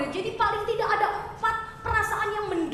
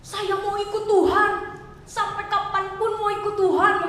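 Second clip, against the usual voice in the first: loud, eager promise of loyalty, a bit higher; boastful vow; 4 semitones higher, 4 dB louder than usual. Retold or imitated. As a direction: proudly swear to follow him forever. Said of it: "gembar-gembor". (janji berkoar-koar dengan lantang)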